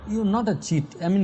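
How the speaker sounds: ordinary talk, nothing marked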